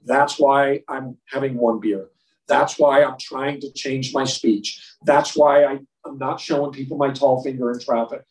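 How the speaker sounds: slow and earnest; slow sincere testimony. Shown as a demonstration. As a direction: speak from the heart, slowly. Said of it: "take that step of faith out and say".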